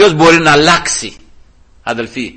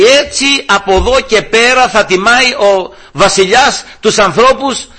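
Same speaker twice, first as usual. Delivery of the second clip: mock public announcement, pitched up; herald's cry; 6 semitones higher than usual. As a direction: call it out like a town crier, without full shouting. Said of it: "και να φωνάζει μπροστά και να λέει".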